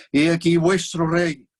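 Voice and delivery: slow, loud proclamation to the crowd; Pilate proclaiming. Acted. Pilate shows Jesus to the crowd, slow loud proclamation. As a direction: announce him grandly, drawing it out.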